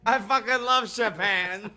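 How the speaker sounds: laughing exclamation. Real, not acted. Joking with friends about Japan, loud laughing declaration. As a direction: shout it through laughter.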